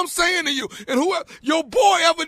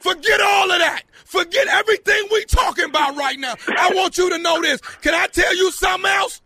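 raised, insistent shouting; yelling; 5 semitones higher than usual. Pretend. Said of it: "You yelling again?".

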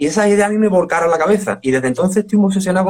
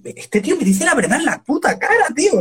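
imitating a singer; 10 semitones higher than usual. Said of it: "siempre se ríe de mí porque me dice".

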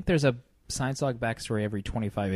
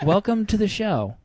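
laughing welcome; 10 semitones higher, 6 dB louder than usual. Real, not acted. Greeting a guest host.

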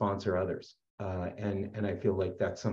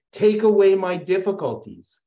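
fervent prayer; 10 semitones higher, 9 dB louder than usual. Retold or imitated.

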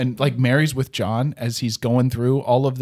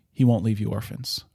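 tender consolation; 2 semitones lower, 4 dB quieter than usual. Retold or imitated. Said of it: "And Mary's like".

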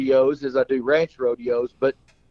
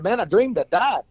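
higher mock-mournful clown; glum clown; 6 semitones higher than usual. Clown telling his friend the dream, mock mournful. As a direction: play the sad clown's lament.

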